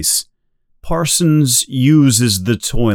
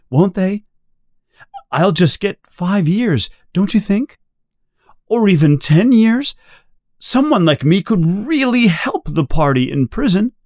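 high, pleading voice on the edge of tears; a frightened man begging to be told he'll live; almost crying; 8 semitones higher, faster than usual. A narrator's reading. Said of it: "almost crying".

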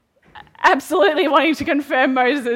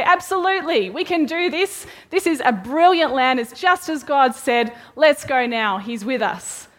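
eager report; 3 semitones higher than usual. Retold or imitated. Caleb and Joshua, eager report.

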